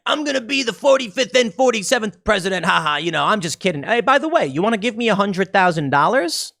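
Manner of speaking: lightly voiced Trump, joking; Trump impression. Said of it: "He can come out and say".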